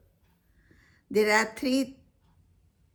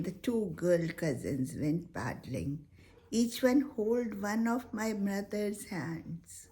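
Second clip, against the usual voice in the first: poem recitation. Acted. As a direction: recite it gently, letting lines fall to a whisper.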